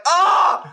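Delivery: sudden high yelp of alarm; startled yelp. Retold or imitated. Startled yelp at a phantom bridge noise. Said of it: "and I was like".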